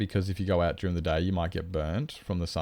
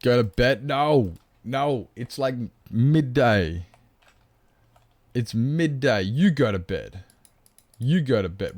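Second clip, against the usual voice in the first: loud mock protest; 4 semitones higher, 6 dB louder, slower than usual. Protesting chat's bedtime order.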